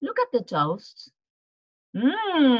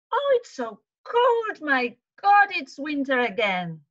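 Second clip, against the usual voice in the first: mock shiver; 4 semitones higher than usual. Teacher shivering at winter's return.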